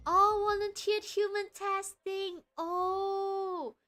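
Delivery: high, loud, slow gasp of surprise; hammed-up dismay; mock shock. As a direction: play up the shock.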